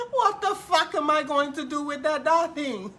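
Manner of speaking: words breaking up with laughter, a little crying; laughing while asking. Real, not acted. Streamer laughing at a viewer's sent picture, laugh-crying. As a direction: push the question out through real laughter.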